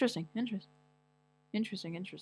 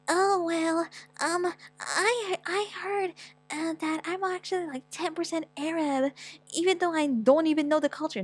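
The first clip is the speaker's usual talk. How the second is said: higher, mocking airhead voice; mock wannabe voice; 9 semitones higher, slower than usual. Mocking someone who claims ten percent Arab, in a put-on voice. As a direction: scoff at a wannabe mixed person. Mocking a fake mixed person.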